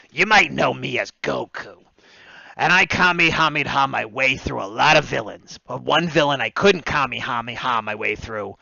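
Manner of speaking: earnest cartoon hero announcement; lightly voiced Goku reading a public service ad; Goku PSA. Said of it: "Goku from an anti-smoking head".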